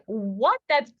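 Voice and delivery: high, baffled "what?"; mock shock. Husband reacting to the crude text, high baffled mock shock. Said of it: "He's like".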